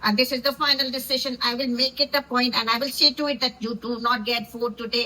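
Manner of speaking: slow, put-on posh English accent imitating Baseer; Baseer's accent copied slowly with mock gravity. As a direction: draw out each English word like Baseer showing off his accent. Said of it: "वो accent कैसे मारता है बशीर".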